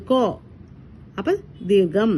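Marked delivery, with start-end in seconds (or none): 0.0-0.2 a slightly stretched o in കൊ; drawn-out vowel. Shown as a demonstration. Teacher demonstrates the long sign to pupils, stretched o in കൊ. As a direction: hold the vowel of കൊ a little. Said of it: "ഇത്തിരി നീട്ടിയിട്ടല്ലേ നമ്മൾ പറയുന്നത്".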